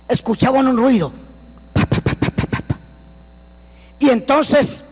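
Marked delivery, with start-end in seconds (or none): 1.7-2.8 imitated flapping noise. Retelling noise heard in jungle.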